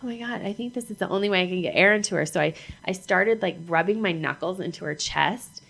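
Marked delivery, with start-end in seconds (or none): 0.0-2.2 fast, louder rush of realization; rushed loud realization while saving her; urgent realization. Retold or imitated. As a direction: blurt it out as the idea hits. Realizing how to save her.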